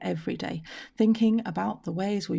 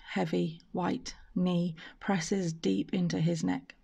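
solemn spoken word. Acted. Spoken word poem reading.

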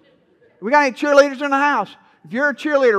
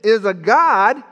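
mocking; 2 semitones higher than usual. Elijah jeering at the prophets about their god, mocking. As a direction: taunt them with mock suggestions, rising. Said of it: "Elijah mocked him and said".

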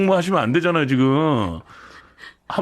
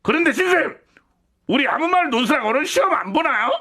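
high, eager student; 10 semitones higher than usual. Acted. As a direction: play a cheeky eager student. Plays student in comedy skit.

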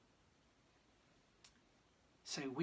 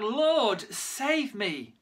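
loud, high cry for help; cried out; 6 semitones higher, 6 dB louder, much slower than usual. Acted. Peter sinking, crying out to Jesus loudly. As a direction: call out in alarm, louder and higher. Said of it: "He cried out".

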